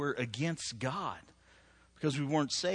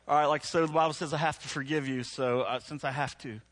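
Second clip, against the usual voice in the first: reluctant obligation. Retold or imitated. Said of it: "I don't know why I'm saying it like that".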